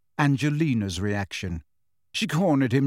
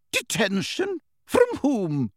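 sharp, high teacher's demand; 11 semitones higher, slower than usual. A narrator's reading. Professor turns on Harry, sharp. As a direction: snap the question at him.

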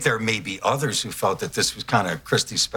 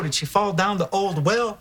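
mock Lassie owner; 6 semitones higher than usual. Lassie-style question to dog.

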